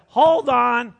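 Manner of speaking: hammed-up shocked interruption; incredulous hold on. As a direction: stop the reading in mock alarm. Mock outrage at the psalm.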